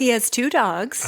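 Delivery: slow hushed whisper. Real, not acted. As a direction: whisper the hint to him. Feeding answers to co-host.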